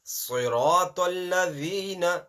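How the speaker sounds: slow, ladhina with the tongue out on the dh; clear zal. Shown as a demonstration. Teacher giving the zal in ladhina slowly. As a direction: put the tongue out for dhi. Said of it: "the zal is there now".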